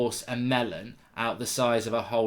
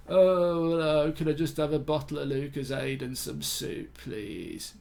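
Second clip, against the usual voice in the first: mock sick voice; slower than usual. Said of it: "You don't go".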